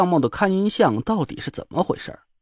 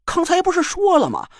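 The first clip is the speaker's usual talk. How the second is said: sly dare; 12 semitones higher than usual. A narrator's reading. Joker daring the girl to enter: sly, cocky. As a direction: goad her into the tent.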